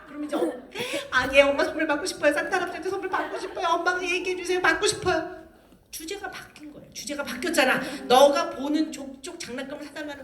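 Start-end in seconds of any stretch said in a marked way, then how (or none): 1.1-5.4 high, urgent mock child plea; begging child. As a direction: plead with mother like a desperate kid. Child begs for Santa's presents.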